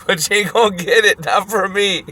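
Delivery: put-on high, crowing old-man voice; imitated old man. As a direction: crow it like a mock old man. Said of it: "motherfucker with the one eye goes".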